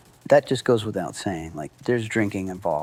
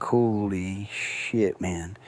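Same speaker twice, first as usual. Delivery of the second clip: relieved; 2 semitones lower, 6 dB quieter, much slower than usual. Retold or imitated. Relief after cops leave.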